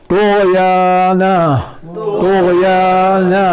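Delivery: तो गया ना very slow with a thin, light त; light ta drill. Shown as a demonstration. Teacher drills the light तो for the class. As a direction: stretch तो गया ना slowly, keep the T light. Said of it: "नून पर भी इस्तिफाल है".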